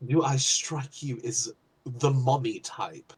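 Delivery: deadpan. Acted. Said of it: "looking at him just deadpan".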